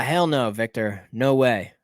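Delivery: normal talking voice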